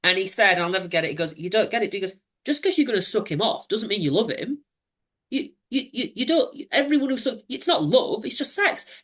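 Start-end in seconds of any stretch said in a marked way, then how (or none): 1.4-9.0 put-on patronizing boyfriend. Abuser voiced, patronizing him.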